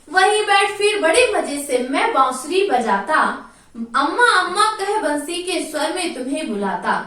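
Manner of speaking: sing-song poem recital, lightly chanted; poem recitation. Acted. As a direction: recite the verse to the class in a lilting chant.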